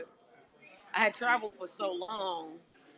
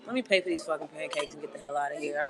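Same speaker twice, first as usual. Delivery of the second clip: real anger; 4 semitones lower, faster than usual. Real, not acted. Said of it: "I'm, I'm angry".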